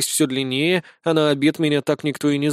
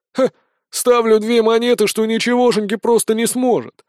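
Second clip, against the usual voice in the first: cocky, louder wager; smug bet; 7 semitones higher, 3 dB louder than usual. A narrator's reading. Fat soldier bets against the recruit, smug. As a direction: grin and slap down the bet. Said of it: "улыбнулся".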